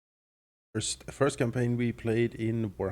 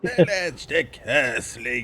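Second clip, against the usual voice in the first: slow hissing, sharp esses; 2 semitones higher, 4 dB louder, much slower than usual. Retold or imitated. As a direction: hiss it out slowly like a snake. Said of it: "Village sort of just hisses".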